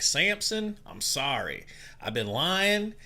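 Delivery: playful mock Jamaican voice; pleading in a hammy Jamaican accent; fake Jamaican accent. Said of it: "he's acting like he's Jamaican".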